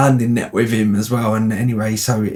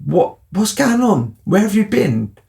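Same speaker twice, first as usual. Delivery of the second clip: indignant; 9 semitones higher than usual. Retold or imitated. Retold confrontation of friend.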